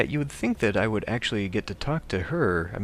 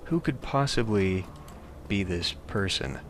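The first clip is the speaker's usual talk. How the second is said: baffled; 4 dB quieter, slower than usual. Real, not acted. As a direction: draw it out in real bewilderment. Puzzled by what the game shows.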